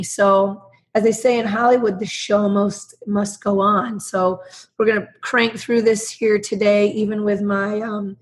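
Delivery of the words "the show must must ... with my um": hoarse, husky voice from a cold; smoker's rasp. Real, not acted. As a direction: speak through a sore, raspy throat. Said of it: "my Saturday night voice".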